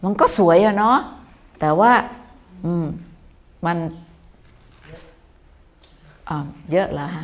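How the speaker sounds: gentle tactful. Retold or imitated. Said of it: "แต่ถ้าเราบอกว่า".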